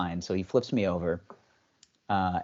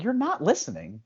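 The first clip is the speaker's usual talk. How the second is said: retold mock complaint; 7 semitones higher than usual. Acts out complaint to therapist.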